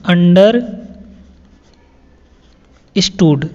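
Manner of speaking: "understood" stretched very long, syllable by syllable; drawn-out word. Shown as a demonstration. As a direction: draw the word out slowly for learners. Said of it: "teacher stretches the word". (शब्द को खींचकर धीरे बोलना)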